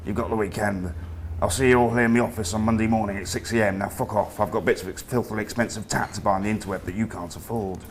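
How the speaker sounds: lightly voiced northern boss giving orders; a hint of a bossy northern creative director; comedy northern accent. Creative director ordering grads to work the weekend, comedy northern accent. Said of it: "in his comedy northern accent".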